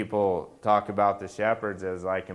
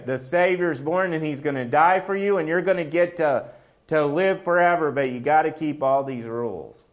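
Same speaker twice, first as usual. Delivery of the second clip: an angel bursting to share the news, pitched high; excited angel; 5 semitones higher, 3 dB louder than usual. Retold or imitated. Preacher voicing the angel to the shepherds, high and eager. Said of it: "and says".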